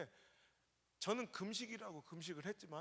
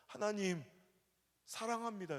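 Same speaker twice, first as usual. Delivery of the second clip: a higher, louder cry of love to God; crying out in prayer; 3 semitones higher, 5 dB louder than usual. Retold or imitated. Pastor retells crying out to God in prayer, higher and louder. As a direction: call out to God through tears. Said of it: "펑펑 울면서".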